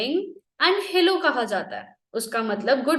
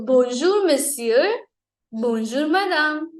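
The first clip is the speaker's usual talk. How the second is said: slow review; 2 semitones higher, much slower than usual. Shown as a demonstration. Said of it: "slow review of phrases".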